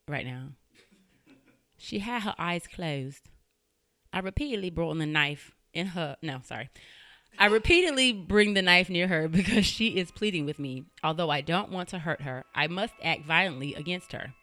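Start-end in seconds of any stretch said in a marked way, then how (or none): 1.8-6.2 attempted English accent. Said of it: "do an English accent". 7.4-14.3 badly faked English accent; attempted English accent. Host reading a killer's diary confession, attempted English accent. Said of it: "do an English accent".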